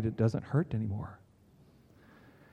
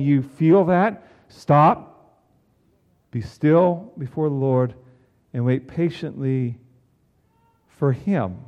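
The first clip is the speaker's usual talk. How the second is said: louder firm stop, then calm counsel; psalm writer's rebuke; 2 semitones higher, 5 dB louder, slower than usual. Acted. Psalm writer halting an angry heart, firm then calm. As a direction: stop them hard, then ease. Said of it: "the psalm writer is saying".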